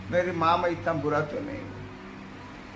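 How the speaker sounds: pleading son. Acted. Son pleading with his mother.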